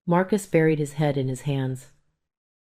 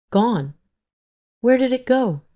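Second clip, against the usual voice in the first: high, stunned question; shocked; 7 semitones higher than usual. A narrator's reading. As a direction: disbelief breaking out. Shock at the lost money.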